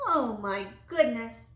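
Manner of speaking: slow, dismayed oh my goodness; shocked exclamation. Acted. Townsman gasping at the doctor's ears, slow dismay. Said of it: "said Fullerton K. Harbert".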